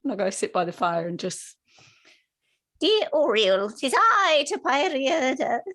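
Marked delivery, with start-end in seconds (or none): 2.8-5.6 higher-pitched, drawn-out call to a deity; hammed-up prayer; acted prayer. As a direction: call out grandly to your god, slowly.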